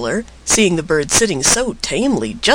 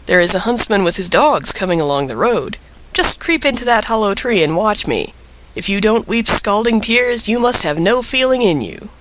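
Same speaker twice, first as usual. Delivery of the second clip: ordinary delivery, nothing marked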